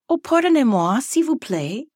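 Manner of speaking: lightly performed classroom French; speaking French. Retold or imitated. Teacher throwing French at her distracted students, in playful French. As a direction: put on some French with a lilting rise and fall. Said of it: "I would be speaking French".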